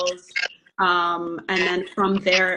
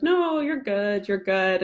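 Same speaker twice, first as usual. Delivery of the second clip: retold reassurance; slower than usual. Retold doctor reassuring a worried child.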